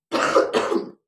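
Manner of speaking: loud breathy cough; a harsh real cough. Real, not acted. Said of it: "Je tousse encore un peu".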